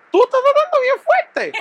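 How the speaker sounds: high, laughing disbelief at her words; incredulous laughing echo. Retold or imitated. Boyfriend mocking girlfriend's excuse, laughing in disbelief. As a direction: repeat her line through a laugh, in disbelief.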